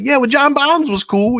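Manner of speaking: a giggling high mock of the friend; laughing quote. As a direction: quote him while cracking up. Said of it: "He's like".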